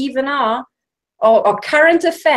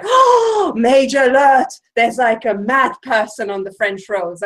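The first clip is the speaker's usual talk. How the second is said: mock alarmed cop. French cop at a tiny accident, mock alarmed cry. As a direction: ham up a panicky French cop sounding the alarm. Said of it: "and he's like".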